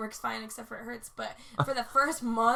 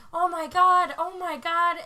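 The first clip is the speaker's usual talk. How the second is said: loud, higher mock panic; retold panic; 6 semitones higher, 11 dB louder than usual. Driver who just hit her, retold panic. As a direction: imitate an alarmed driver.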